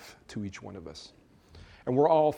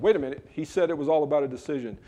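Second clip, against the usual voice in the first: quick objection; 3 semitones higher, faster than usual. Pretend. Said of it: "you're probably thinking".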